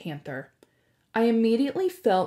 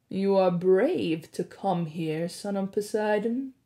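smarmy blackmailer. Acted. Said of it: "in an oily voice".

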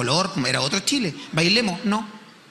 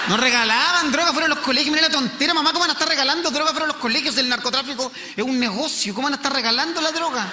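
raised, fast mocking disbelief; indignant rant; 6 semitones higher than usual. Real, not acted. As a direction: scoff at mum's naive warning. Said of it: "indignant rant".

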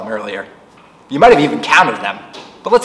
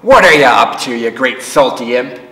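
louder, gruff teasing scold; gruff old seaman scolding fondly; gruff old sailor; 5 dB louder than usual. Acted. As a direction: growl it fondly.

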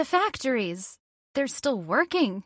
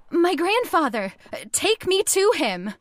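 raised, higher call across to the marching men; urgent, higher-pitched cry; 4 semitones higher than usual. Acted. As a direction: shout it out to be heard.

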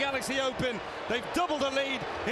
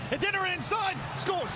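goal call; 6 semitones higher than usual. Real, not acted.

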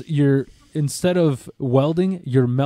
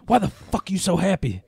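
higher-pitched, raspy little coworker voice; put-on little raspy voice; Pinky; 6 semitones higher than usual. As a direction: imitate a raspy pimp, baffled and pitched up. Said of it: "He got a little raspy little voice".

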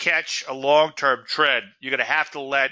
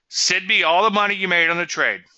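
louder, higher teasing demand; mock demand; 6 semitones higher, 5 dB louder than usual. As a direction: push the joke harder. Repeats joking demand louder.

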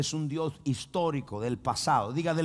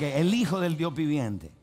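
with gusto. Shown as a demonstration. Preacher urging congregation, say it with gusto. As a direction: say it like you've eaten well. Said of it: "Pero dígalo como que usted comió".

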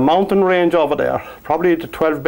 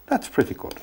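soft whispered repeat of the praise; 7 semitones higher, 9 dB quieter than usual. Real, not acted. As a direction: breathe it out as a private aside. Painter repeats his verdict, whispered.

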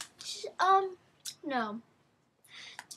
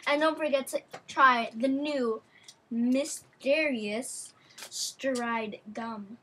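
chewing gum; 3 dB louder, slower than usual. Real, not acted. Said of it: "which we are eating now".

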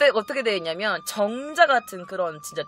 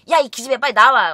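a loud retold scolding, a bit higher; aunt yelling; 3 semitones higher, 9 dB louder than usual. Youngest aunt snatches the phone to order her niece out, loud scolding. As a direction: bark it like an aunt fed up on the phone.

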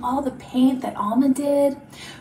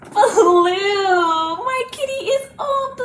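high mock amazement after a gasp; amazed reveal; 6 semitones higher, 5 dB louder, slower than usual. Teacher shows children the blue kitty, playfully amazed. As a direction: marvel brightly at the colour.

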